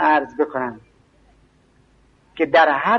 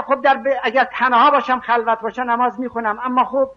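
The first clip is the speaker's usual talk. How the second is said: higher-pitched imitation of someone making excuses; pitched-up mock voice of a man who fears ridicule; excuse-maker's voice; 7 semitones higher than usual. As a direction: whine out the excuse of skipping prayer among others. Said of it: "میگه".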